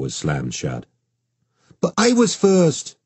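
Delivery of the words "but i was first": put-on high, slow, wailing little girl; child's wail. A narrator's reading. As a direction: wail it like the world is ending. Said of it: "Zara wailed in end-of-the-world torment".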